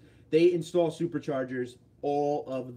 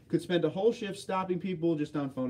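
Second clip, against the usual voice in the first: ordinary talk, nothing marked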